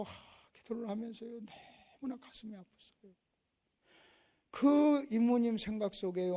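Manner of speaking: ordinary delivery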